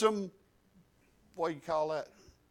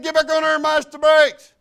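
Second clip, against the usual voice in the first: loud, raised-pitch shouted instruction; retold urgent call; 5 semitones higher, 10 dB louder than usual. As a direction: holler it to someone jumping off. Repeats call to boy off vehicle.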